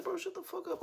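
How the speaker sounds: high mocking retort. Retelling what he snapped at the driver, high and cocky. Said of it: "I was like".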